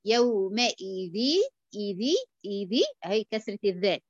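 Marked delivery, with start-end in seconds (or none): 0.1-1.2 يومئذ drawn out very slowly, kasra on the dhal, nun merged into the ya with ghunna; slow recitation of يومئذ; ghunna demo. Shown as a demonstration. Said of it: "وانتبه لكسرة الذال".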